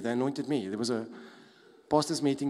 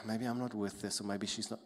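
resigned inner thought; 3 semitones lower, 5 dB quieter than usual. Pretend. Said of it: "just agree".

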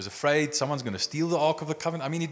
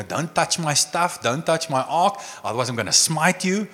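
grumpy God; 5 semitones higher, 5 dB louder than usual. Retold or imitated. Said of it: "nitpicky little rules".

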